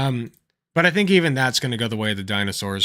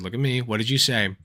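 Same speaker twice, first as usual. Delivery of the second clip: lightly voiced stern dad, lower; a touch of dad mode, pitched down; 4 semitones lower, 4 dB quieter than usual. Gymnastics coach questioning a kid, lightly voiced dad mode. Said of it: "I went dad mode".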